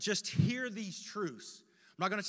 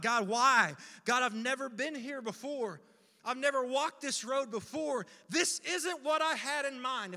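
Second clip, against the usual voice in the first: higher, anguished plea; pleading with God; 3 semitones higher than usual. Retold or imitated. Preacher retelling his prayer to God, pleading. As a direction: question God in dismay.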